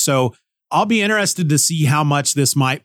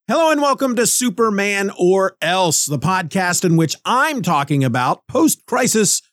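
odd reading; 6 semitones higher than usual. Shown as a demonstration. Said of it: "Why did I say it like that?".

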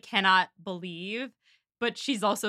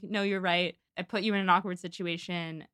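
lightly voiced man, lower and subdued; Willoughby's voice; 5 semitones lower, 3 dB quieter than usual. Suitor promising Marianne the horse later, lightly imitated low voice. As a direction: imitate a suitor conceding, pitched a little down. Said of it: "Willoughby comes in, and he's like".

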